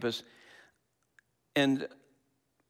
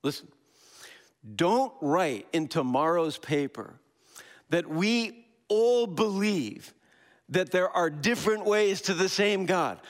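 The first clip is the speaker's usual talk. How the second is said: higher, louder, slow forceful warning to the media; impassioned warning; 6 semitones higher, 3 dB louder than usual. Retold or imitated. Imam warning the newspaper reporter, raised and emphatic. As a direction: lay down the law to the reporter, voice raised high. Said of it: "He goes".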